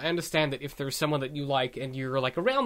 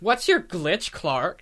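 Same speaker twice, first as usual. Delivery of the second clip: mock snarky put-down; much slower than usual. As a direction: throw it out as a mock taunt. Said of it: "But Lana seems to be".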